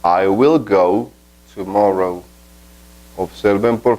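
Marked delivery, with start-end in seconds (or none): 0.0-2.2 said slowly, word by word; slow model sentence. Shown as a demonstration. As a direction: spell it out slowly for learners. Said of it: "Por ejemplo, esta frase". (frase modelo, despacio)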